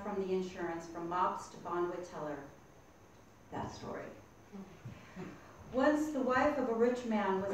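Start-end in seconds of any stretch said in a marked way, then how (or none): 3.5-4.0 hushed breathy "That story"; whispered. Shown as a demonstration. Whispered final refrain.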